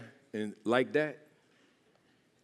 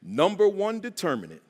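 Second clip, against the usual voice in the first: spaced out and raised, with pauses; deliberate lead-in for a crowd to repeat; letting it marinate; 6 semitones higher, 4 dB louder than usual. Shown as a demonstration. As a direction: let each phrase sink in. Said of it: "'cause I wanted to marinate".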